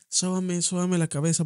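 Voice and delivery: lightly voiced mom begging; mother asking son for a massage, pained; pleading mother.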